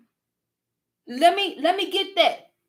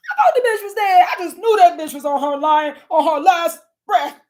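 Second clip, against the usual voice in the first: incredulous loud rant; 7 dB louder than usual. Real, not acted. Mock disbelief at survival.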